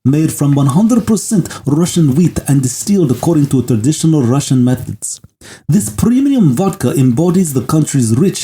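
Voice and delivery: lightly voiced Russian accent ad read; hammed-up Russian ad voice, a touch only. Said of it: "Should I do this in a Russian voice?".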